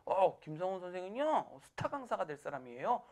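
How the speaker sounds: mock-admiring colleague, imitated; teasing. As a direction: announce the rookie with teasing, slowed-down praise. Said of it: "계속 놀리는 거야".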